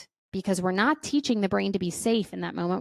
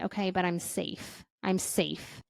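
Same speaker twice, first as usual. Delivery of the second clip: self-soothing; 2 semitones lower, 6 dB quieter than usual. Shown as a demonstration. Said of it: "we can also tell the brain".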